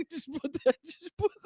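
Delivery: squeaky, soft, high mock voice; mock staffer voice. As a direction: play a dim staffer squeaking out a title idea. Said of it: "all I heard was disgusting".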